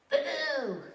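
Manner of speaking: a light shouted boo; jump-scare the sleeping dog; playful boo. Acted. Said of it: "Sheep went up to Dog and went".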